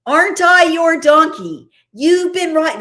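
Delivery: high, indignant donkey telling off its rider; scolding nanny donkey. Acted. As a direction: scold him like his old nanny. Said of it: "she's his nanny and he's grown up and she's scolding".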